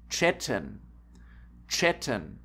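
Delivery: "chatten" said as CHET-ten; careful German "chatten", tsh at the start; ch as tsch. Shown as a demonstration. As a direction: show "chatten" starting like English chat. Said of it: "They are pronounced T S C H".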